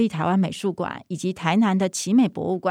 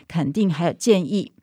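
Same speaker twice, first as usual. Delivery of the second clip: ordinary talk, nothing marked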